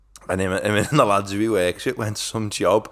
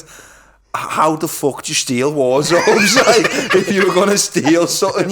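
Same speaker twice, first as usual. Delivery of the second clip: laughing disbelief; 5 semitones higher, 5 dB louder than usual. Retold or imitated. Retelling dad's reply to the woman, laughing. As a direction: stretch it out through a laugh. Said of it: "my dad's went".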